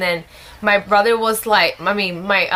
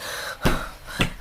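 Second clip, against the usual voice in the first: mock anxious breath; 7 dB quieter than usual. Retold dread of being exposed.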